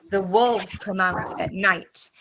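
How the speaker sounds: The wolves come out at night said slowly, every word clear; slow model sentence. Shown as a demonstration. Teacher to class, modelling night in a sentence slowly. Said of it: "listen to the word I'm saying in the sentence".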